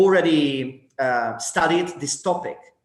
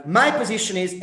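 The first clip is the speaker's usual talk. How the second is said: "my" raised at the start; stress on MY; 5 semitones higher than usual. Shown as a demonstration. Teacher showing what a group should avoid, "my" stressed. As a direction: lean on the word "my". Shows wording not to use.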